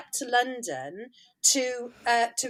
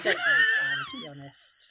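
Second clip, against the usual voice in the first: much higher, squeaky laughing emphasis on really; squealed emphatic repeat. Real, not acted. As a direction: shriek the repeat in amused exasperation. Repeated phrase, second emphatic.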